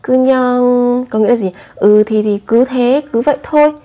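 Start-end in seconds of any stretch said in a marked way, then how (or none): 0.0-1.0 drawn-out, noncommittal 그냥; mildly evasive example reply; vague, offhand. Acted. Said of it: "một cách bâng cua các bạn có thể nói rằng". 1.7-3.7 mildly evasive example reply; vague, offhand. Acted. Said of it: "một cách bâng cua các bạn có thể nói rằng".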